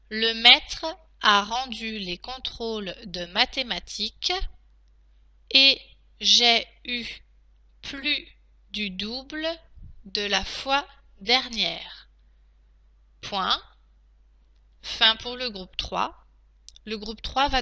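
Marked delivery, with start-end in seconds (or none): 0.1-12.1 slow, spaced-out dictation pace. Shown as a demonstration. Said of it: "je vais donc maintenant relire la dictée". 13.2-13.6 dictating. Shown as a demonstration. Teacher dictating to class.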